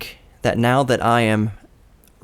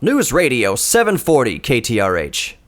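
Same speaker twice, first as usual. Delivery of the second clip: crisp announcer voice, each syllable clear; radio station ID. Shown as a demonstration. Young waiter rehearsing the station ID in his car, announcer voice. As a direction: practise the call letters like a pro announcer. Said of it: "I just kept repeating to myself".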